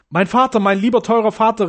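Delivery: high, loud, fervent cry; overflowing tenderness. A narrator's reading. Daughter embracing her blind father, overflowing tenderness. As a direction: call out with relieved love. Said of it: "in überströmender Zärtlichkeit".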